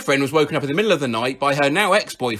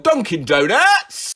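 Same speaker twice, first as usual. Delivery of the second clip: slow, drawn-out higher yell; retold yell; 5 semitones higher, 4 dB louder, slower than usual. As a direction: blurt it out as a random shout. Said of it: "Randomly yelled".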